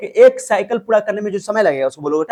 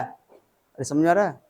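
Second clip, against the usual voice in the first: drawn-out check; 4 semitones lower, 4 dB quieter, much slower than usual. Real, not acted. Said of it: "repeats the check, drawn out".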